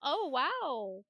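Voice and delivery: holding back laughter. Retold or imitated. Mom questioning her son, acting out suppressed laughter. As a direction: imitate stifling a laugh while responding. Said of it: "literally trying not to die laughing".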